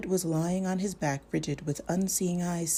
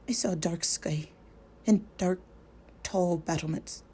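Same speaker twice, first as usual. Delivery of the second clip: low, hesitating. Acted. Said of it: "In a low, hesitating voice".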